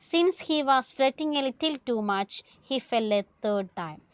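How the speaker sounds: slow, deliberate story reading; slow read-aloud. Acted. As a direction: stretch the phrases out for the class. Reads text aloud to class.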